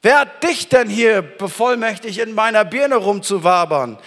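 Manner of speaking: shouting down an unclean thought; commanding shout. Pretend. Musst du gefangen nehmen und sagen.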